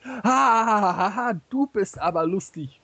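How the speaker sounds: high staged guffaw running into the words; hammed-up laughing. Marx to Engels after his knock-knock joke, laughing exaggeratedly. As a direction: crack up theatrically at a pal's joke.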